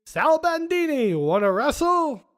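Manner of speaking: high, loud mock wrestler's challenge; hammed-up wrestler introduction.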